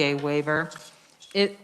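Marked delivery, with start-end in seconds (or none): 1.3-1.6 talking with food in mouth; speaking through a mouthful of food; mouth full. Real, not acted. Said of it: "I have food in my mouth".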